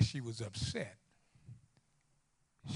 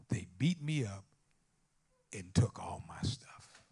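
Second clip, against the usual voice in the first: imitating tearful daughter; 3 semitones lower than usual. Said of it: "Call crying".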